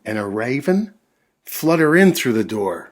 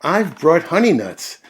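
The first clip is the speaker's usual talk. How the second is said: grinning badger; 7 semitones higher, 6 dB louder than usual. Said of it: "Badger says with a grin".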